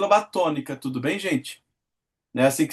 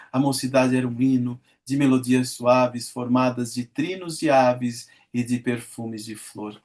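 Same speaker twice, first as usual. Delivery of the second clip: lower, measured verse reading; poem recitation; 3 semitones lower than usual. Acted. Teacher reading Meus Oito Anos to class, recited lyrically. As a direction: recite it like a school poem, savouring each line.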